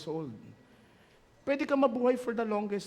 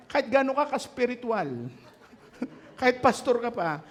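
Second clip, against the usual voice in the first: laughing; 5 semitones higher, 5 dB louder than usual. Real, not acted. Laughs while joking.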